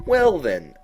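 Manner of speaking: high, slow, drawn-out cat voice; lofty knowing cat, high and slow; Cheshire Cat voice. A narrator's reading. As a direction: purr it out like a sly grinning cat.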